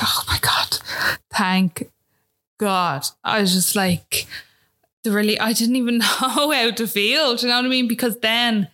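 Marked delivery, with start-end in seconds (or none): 0.0-3.1 breathy whisper of relief; relieved whisper. Retold or imitated. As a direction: let it out in a whispered rush. Relief when heart found.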